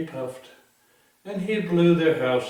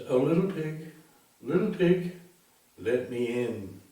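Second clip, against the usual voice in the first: sing-song wolf call; 2 semitones higher than usual. Acted. Wolf calls sweetly at door.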